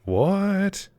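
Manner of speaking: high, drawn-out disbelief; surprised. Real, not acted. Player reacting to a turn in the game, surprised. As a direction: let it shoot up into a stretched question.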